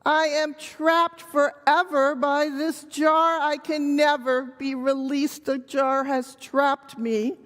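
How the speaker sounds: mild storybook yell without real volume; mock yelling monkey. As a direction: play a trapped monkey declaiming despair. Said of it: "he begins to yell again".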